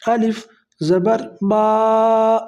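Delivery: each sound stretched slowly; drawn out spelling. Shown as a demonstration. Quran teacher spelling slowly to students, drawn out. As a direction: spell it out long and slow for pupils. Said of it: "اتنا کھینچ کے پڑھنا ہے".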